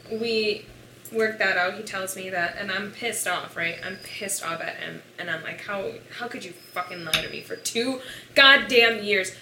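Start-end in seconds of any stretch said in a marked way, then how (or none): 5.6-9.3 put-on loud, furious rant at the boyfriend; retold angry outburst. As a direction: hurl the accusation at him. Angry quote to boyfriend in retold fight.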